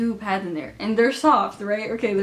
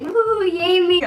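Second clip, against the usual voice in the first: high, slow, drawn-out cheer; 11 semitones higher, 8 dB louder, much slower than usual. Retold or imitated. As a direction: cheer it from the back row. Classmates cheering from the back.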